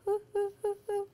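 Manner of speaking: soft high hoo hoo noise; breathy owl-like hoots; hooting. Shown as a demonstration. Teacher demonstrating the signal noise, soft high hoots. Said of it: "go like this".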